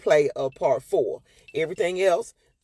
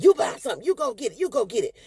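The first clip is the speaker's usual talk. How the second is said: raised, huffy retort; mock angry dad; 8 semitones higher than usual. Father storming out at wife, mock angry. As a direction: spit it out while storming off.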